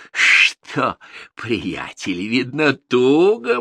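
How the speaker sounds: mocking tsar. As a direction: taunt the frightened lad. Tsar mocks Ivan.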